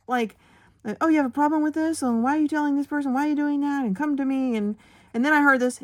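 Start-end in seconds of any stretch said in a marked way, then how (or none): 1.0-4.6 high, loud mock-angry manager rant; retold yelling. Teacher imitates her manager yelling at students. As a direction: belt it out like a furious boss. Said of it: "She's yelling at them".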